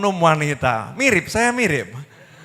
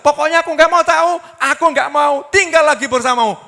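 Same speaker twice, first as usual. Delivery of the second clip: high, loud furious wife; furious shout; 8 semitones higher, 5 dB louder than usual. Acted. Wife shouting at her husband, furious and loud. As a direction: scream it at him, done with him. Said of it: "marah-marah luar biasa".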